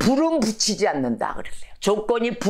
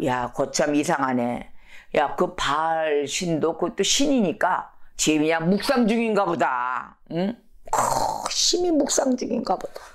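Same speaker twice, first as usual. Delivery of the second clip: mock-puzzled taunt; 3 semitones lower than usual. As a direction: wonder aloud in pretended concern. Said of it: "조롱을 합니다".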